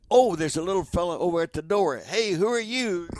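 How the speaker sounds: mock-surprised radio host greeting a newcomer; radio host bit. Shown as a demonstration. Acts out his old radio bit.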